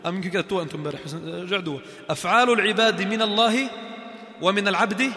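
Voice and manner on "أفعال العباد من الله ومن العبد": slow dictation. Shown as a demonstration. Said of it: "هدي اكتبوها لو سمحتوا".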